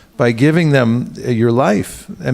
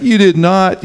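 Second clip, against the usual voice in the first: higher, mock amazed; mock disbelief; 6 semitones higher, slower than usual. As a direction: gasp it in fake awe. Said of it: "everyone's like".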